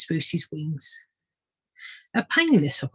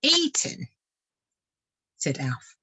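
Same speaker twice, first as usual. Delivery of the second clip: grim vole; 3 dB louder, slower than usual. Acted. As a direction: drop the grim punchline. Vole's grim punchline.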